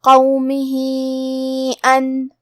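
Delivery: recited with the vowel held long; tajweed recitation. Shown as a demonstration. Teacher showing the long madd, recited. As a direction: stretch the final vowel in recitation. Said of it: "ہم اپنی آواز دو سے چار مد کے برابر لمبی کریں گے".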